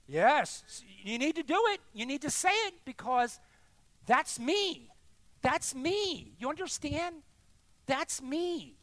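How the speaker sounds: loud, high, insistent preaching; impassioned confession. Real, not acted. Preacher admitting his fault to the congregation, impassioned and loud. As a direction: own up at full voice.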